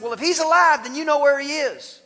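high, loud demanding challenge; menacing soldier. Retold or imitated. Roman soldier pressing the disciple for Jesus, loud and demanding. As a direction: corner him with it. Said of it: "He said".

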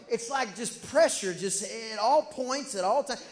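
loud, punched words on pressure; emphatic preaching. Real, not acted. Pastor pressing the congregation, loud and emphatic. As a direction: hit pressure and all hard.

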